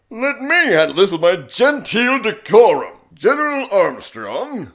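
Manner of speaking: booming, high, grandiose officer voice; General Armstrong. Shown as a demonstration. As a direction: declaim it loudly with pompous flourish. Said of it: "I'm gonna do General Armstrong".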